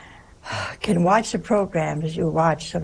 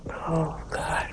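hushed horrified "Oh, God"; a shocked whisper at the table; horrified gasp; 2 semitones lower, 7 dB quieter than usual. Retold or imitated. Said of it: "She was horrified".

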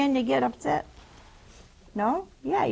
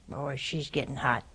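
aside; 7 semitones lower, 8 dB quieter than usual. Real, not acted. Aside inside the retold talk.

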